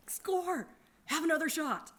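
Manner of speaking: high, loud tipsy whoop; drunken cheer. Retold or imitated. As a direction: cheer like a happy drunk celebrating.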